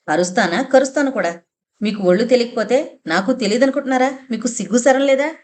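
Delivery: defiant, rising, quick angry retort; mother fires back, pitch jumping up; furious wife shaming her husband, fast; shouting back. Acted. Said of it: "అమ్మ అంత బిగ్గరగా అరిచి మాట్లాడడం".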